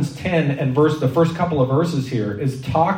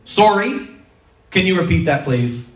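high, rising Canadian apology; Canadian accent; 7 semitones higher, 3 dB louder than usual. Acted. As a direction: say it in your best mock-Canadian accent. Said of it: "we say in our best Canadian accent".

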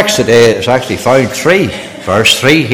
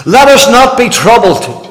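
wrong version; 8 semitones higher than usual. Shown as a demonstration. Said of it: "He didn't say that".

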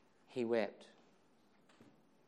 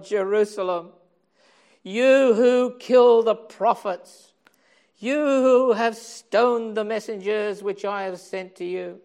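weeping lament; 6 semitones higher, 10 dB louder than usual. Acted. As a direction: plead like a grieving father. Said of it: "in his weeping he said".

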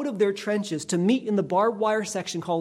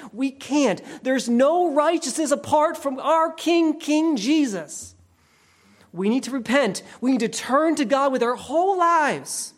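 preaching at full force; 5 semitones higher than usual. Acted. Preacher urging the church to repent, fervent preaching. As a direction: drive the call to repent home to the congregation. Preacher builds to altar call.

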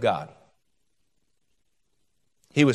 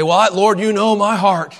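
louder, imitated earnest appeal to God; mock heartfelt plea; 4 semitones higher, 5 dB louder than usual. Worshipper excusing themselves to the Lord, mock heartfelt plea. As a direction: plead with the Lord, slightly hammed-up.

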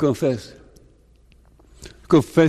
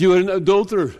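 the Lord accusing; 4 semitones higher, much faster than usual. Retold or imitated. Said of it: "The Lord says".

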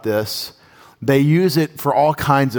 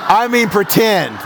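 laughing; 8 semitones higher, 4 dB louder than usual. Real, not acted. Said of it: "slap my cheek".

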